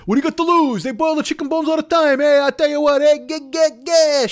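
mock idiot boss voice; dopey Trump impression. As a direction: ham it up like a dull-witted blowhard. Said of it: "Wookiee that runs this fucking country".

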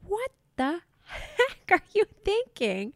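a mom who can't believe what she heard; incredulous. Retold or imitated. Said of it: "I'm like".

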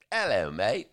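lightly imitated British accent; a hint of a British chap; English accent. Imitating the Brit at the briefing, light English accent. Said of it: "He was, had a nice English accent".

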